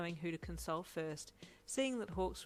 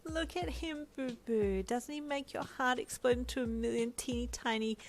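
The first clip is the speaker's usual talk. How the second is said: high, gushing whine, getting louder; emphatic whine; 8 semitones higher, 3 dB louder than usual. A narrator's reading. Boyfriend gushing over the baby to Uncle, emphatic whine. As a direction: whine it with big theatrical emphasis. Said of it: "Brian whined emphatically".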